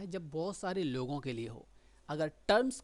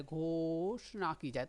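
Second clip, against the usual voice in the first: imitating Dhananand; much slower than usual. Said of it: "धनानंद होता है वो कई सारे शब्दों को ऐसे बोलता है".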